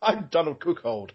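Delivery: strangled cat voice, choked and squeezed. Pretend. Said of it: "Sounded like a strangled cat".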